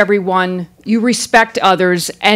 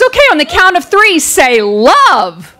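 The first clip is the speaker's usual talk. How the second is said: lightly voiced chipper photographer, higher and quick; imitating an upbeat portrait photographer; perky photographer; 5 semitones higher than usual. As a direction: count them in brightly for the shot. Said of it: "she gets behind the camera and she goes".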